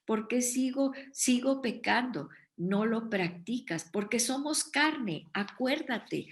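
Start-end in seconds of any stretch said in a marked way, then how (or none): 0.1-2.3 higher, plaintive "¿por qué sigo pecando?"; puzzled believer asking. Retold or imitated. A preacher voicing a frustrated churchgoer, raised pitch. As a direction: voice the listener's confused question. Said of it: "Y entonces dices".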